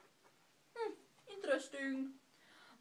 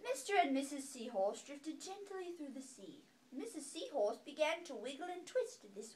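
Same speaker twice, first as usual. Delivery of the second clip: gentle storybook read-aloud; calm bedtime story reading; reading to children; 4 dB quieter than usual. A narrator's reading. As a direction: read it softly to a baby. Reading picture book aloud.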